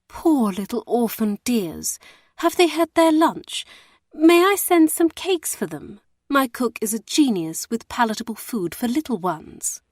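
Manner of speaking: high, sugary do-gooder voice; simpering lady. Acted. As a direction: gush over the poor orphans like a simpering spinster. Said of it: "simpering spinster".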